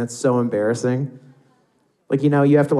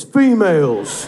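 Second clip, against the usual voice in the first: lightly alien, louder and drawn out; mock alien talk; 4 semitones higher, 5 dB louder, slower than usual. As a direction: say it slowly as if naming an alien species. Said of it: "like they're aliens".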